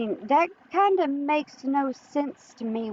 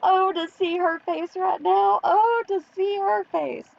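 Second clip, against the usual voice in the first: laughing; 4 semitones higher than usual. Real, not acted. Laughing about the creator.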